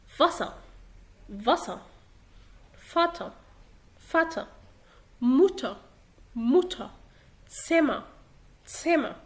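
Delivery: each word isolated, ending in open "ah"; final -er as "ah". Shown as a demonstration. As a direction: drop the final R in فاسا, فاتا, موتا, سما. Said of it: "لما بتيجي في اخر الكلام بتقرا اه".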